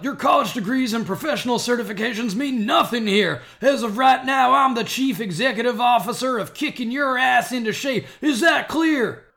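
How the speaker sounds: loud barking drill sergeant. Acted. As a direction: bark orders at new recruits. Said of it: "Full Metal Jacket parody".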